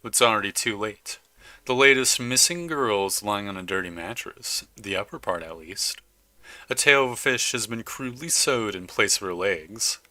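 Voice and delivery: dramatic horror-game narration; story narration. A narrator's reading. Player reading a horror game's text to viewers, dramatic narration. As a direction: read out the grisly scene like a storyteller.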